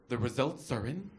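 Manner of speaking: slow, drawn-out reveal like a talent show host; milk the suspense like a TV judge; a lightly done talent show announcement. Retold or imitated. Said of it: "like he was on a talent show".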